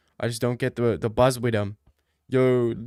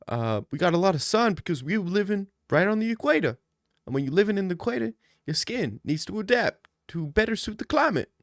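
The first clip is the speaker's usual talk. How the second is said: dad lecture voice; 5 semitones higher, faster than usual. Retold or imitated. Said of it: "And he says".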